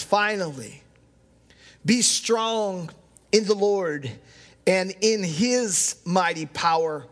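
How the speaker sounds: slow, deliberate reading with weighty pauses; solemn scripture reading. Real, not acted. Pastor reading Ephesians to the congregation, solemn scripture reading. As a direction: read it out phrase by phrase, measured.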